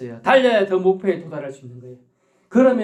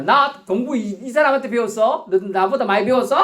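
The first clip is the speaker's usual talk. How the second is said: put-on, slightly higher-pitched show-off challenge; mock bragging; 4 semitones higher than usual. Preacher mimicking a man proud of his learning, mock boastful. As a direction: play the know-it-all looking down on people. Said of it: "하고 잘난 척하는 거".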